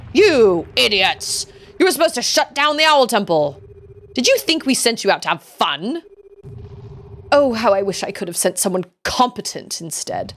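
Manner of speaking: theatrical, exasperated owl commander; scolding superior. Acted. Superior berates students over the Owl Temple, exasperated.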